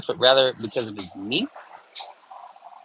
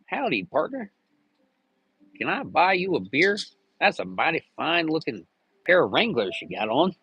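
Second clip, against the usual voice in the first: a hint of a friendly cowboy, higher; lightly voiced howdy cowboy; mock cowboy; 4 semitones higher than usual. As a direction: greet him like a polite cowpoke. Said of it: "and be like".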